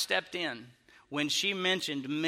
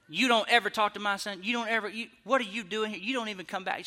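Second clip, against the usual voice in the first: higher-pitched mock scolding; going in on him; 4 semitones higher, faster than usual. Irate mother tearing into the man who spoke to her son, retold scolding. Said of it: "she's just going in on me".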